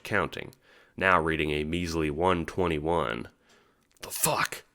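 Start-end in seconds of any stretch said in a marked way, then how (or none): 4.0-4.6 breathy hissed curse under the breath; hissed whisper. Acted. Dave hisses in alarm at the new countdown, whispered. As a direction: hiss it in alarm. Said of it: "you hiss".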